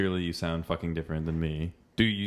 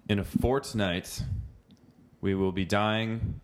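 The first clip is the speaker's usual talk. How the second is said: model line to repeat; 2 semitones higher, slower than usual. Shown as a demonstration. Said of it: "let's just use your accent".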